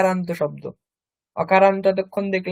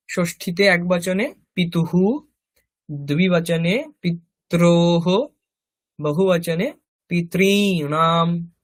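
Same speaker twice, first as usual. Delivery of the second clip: slow, measured chanting of noun forms; rote recitation; slower than usual. Shown as a demonstration. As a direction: recite each form evenly like a class drill. Reciting case by case. (ধীরে ধীরে শব্দরূপ আবৃত্তি)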